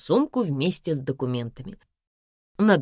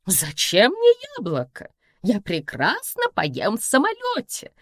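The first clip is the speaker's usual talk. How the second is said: smirking mother; 5 semitones higher than usual. Acted. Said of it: "хмыкнула мама".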